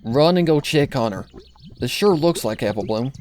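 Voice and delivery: put-on older sister ordering brother to check on Applebloom. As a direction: send him running, worried. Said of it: "Applejack ordered".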